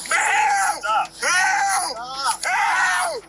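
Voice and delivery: real panicked screams for help; crying out in pain and fear; desperate cries for help. Real, not acted. Man pinned by police, screaming.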